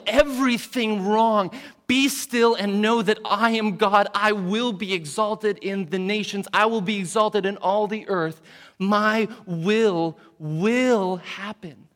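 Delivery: high, loud booming command; God's commanding voice. Retold or imitated. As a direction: thunder it out like a final decree. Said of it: "One day God will come and say".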